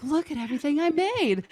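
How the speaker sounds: pitched high, showing off her baking; light mock pride; mock proud. Retelling showing off her baking to family, mock proud. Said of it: "I'm like".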